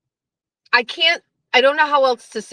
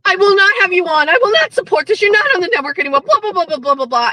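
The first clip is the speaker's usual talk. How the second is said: mock ranting, louder, fast; mock angry rant; 6 semitones higher, 4 dB louder, much faster than usual. Menners angrily typing out his ban of Kane, mock rant. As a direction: rattle off a petty tirade. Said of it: "angrily typed on his keyboard".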